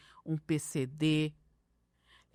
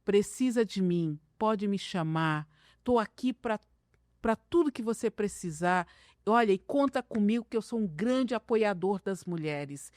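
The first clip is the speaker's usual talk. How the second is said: cutesy voice; 3 semitones higher than usual. Retold or imitated. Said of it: "quando vem a palavra fofinha".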